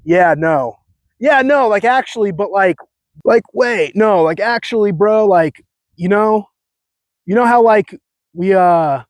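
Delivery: mock California "yeah, no" talk; California bro. Shown as a demonstration. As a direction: wander through the filler like a California bro. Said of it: "stupid stuff like the".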